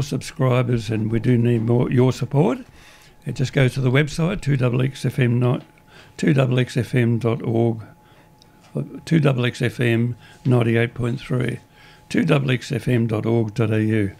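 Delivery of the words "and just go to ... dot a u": slightly hoarse, croaky throat. Real, not acted. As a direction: talk through a croaky throat. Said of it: "I've got a croaky voice today".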